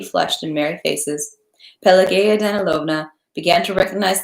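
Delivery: steady audiobook reading voice; calm storyteller reading aloud; story narration. A narrator's reading. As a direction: read it like a chapter to listeners. Reads War and Peace aloud.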